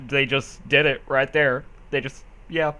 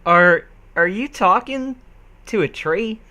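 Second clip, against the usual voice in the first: stammering Rarity; 5 semitones higher, 5 dB louder than usual. Acted. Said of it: "she stammered".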